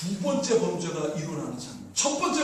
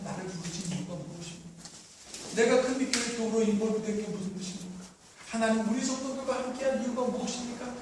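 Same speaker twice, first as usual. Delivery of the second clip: hushed prayerful appeal. Real, not acted. Soft appeal and modelled prayer.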